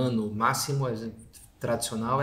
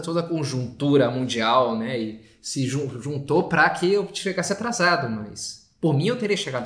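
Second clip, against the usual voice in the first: mildly defensive self-justification; making excuses; 3 dB louder than usual. Acted. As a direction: lightly act someone shifting the blame. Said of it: "essa pessoa tá se desculpando". (desculpando-se, levemente na defensiva)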